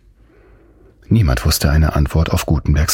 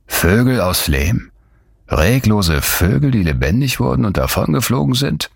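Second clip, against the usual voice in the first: dawning excitement; 6 semitones higher than usual. Acted. Gutenberg struck by an idea.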